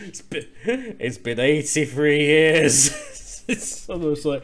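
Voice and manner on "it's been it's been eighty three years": slow, lightly voiced old woman; drawn-out reminiscing, lightly acted; Titanic old Rose.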